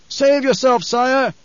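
high urgent shout. A narrator's reading. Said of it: "a Sardaukar officer shouted".

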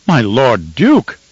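slow, drawn-out alarmed call; alarmed scolding. Acted. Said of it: "alarmed voice carried a scolding tone".

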